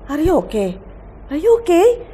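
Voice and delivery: mother hearing daughter needs a psychiatrist, alarmed. Retold or imitated. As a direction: ask in growing alarm.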